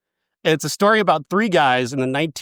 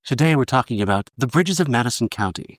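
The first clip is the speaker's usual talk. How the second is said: NPR host voice; 3 semitones lower than usual. Pretend. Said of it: "like N P R people".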